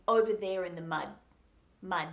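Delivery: "mud" with a silent, unreleased D; "mud" stopped short on a silent D. Shown as a demonstration. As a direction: end "mud" on a held tongue, D never popped. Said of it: "sounds like a silent D".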